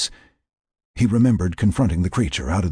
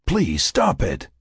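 whispery telepathic voice; 3 semitones higher, slower than usual. Acted. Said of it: "the voice continued".

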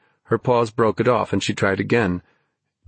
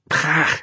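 higher, disgusted "pah"; disgusted spit; 6 semitones higher than usual. A narrator's reading. Ben with moat water in his face, disgusted spit. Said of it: "he grimaced".

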